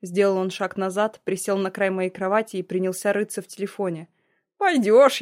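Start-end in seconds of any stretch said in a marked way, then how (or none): 4.6-5.2 higher, louder, rising insistence; pressing threat. Acted. Oleg repeats the threat to his ex-fiancée, louder and higher. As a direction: push the word at her, raising it.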